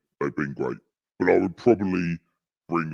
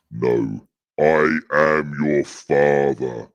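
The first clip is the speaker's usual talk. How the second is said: Frank Bruno impression; 5 dB louder, slower than usual. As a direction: boom it out slowly like a boxer doing Vader. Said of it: "I sound like Frank Bruno".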